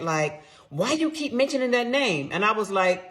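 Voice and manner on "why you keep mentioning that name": husband. Retold or imitated. Husband voiced in retold confrontation.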